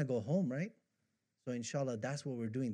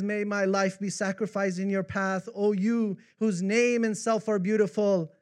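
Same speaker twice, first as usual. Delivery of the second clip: raised, ardent devotional verse; poem recitation; 3 semitones higher, 6 dB louder than usual. Acted. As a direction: declaim it as praise addressed to the beloved.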